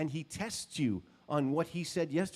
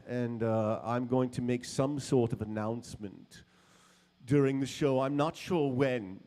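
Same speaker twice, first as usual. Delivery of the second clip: lightly voiced boss; 5 dB louder than usual. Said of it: "he said".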